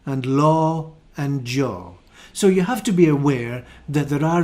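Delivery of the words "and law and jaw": "sure", "pure" with sounded R, "law", "jaw" slowly; Scottish vowels, slow; Scottish accent. Shown as a demonstration. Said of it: "I would say".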